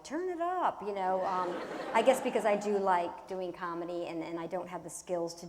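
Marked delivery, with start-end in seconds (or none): 0.0-0.8 excited. Retold or imitated. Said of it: "I'm like".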